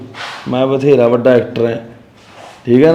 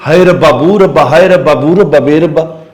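mocking wail. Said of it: "ਆਹ ਕੁਛ ਕਰੀ ਜਾਂਦੀ ਹੈ".

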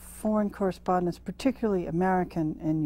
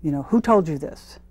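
louder, stern imitation of an interrogator; stern questioning; 6 dB louder than usual. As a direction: retell it as pointed official questioning. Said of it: "very sternly look at you and say".

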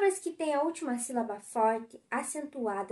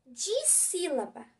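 slow teaching read; 2 semitones higher, 3 dB quieter, slower than usual. Shown as a demonstration. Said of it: "dissílaba é a palavra que tem duas sílabas".

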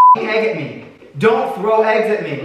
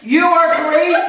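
laughing; 4 semitones higher than usual. Real, not acted. Laughing at splash.

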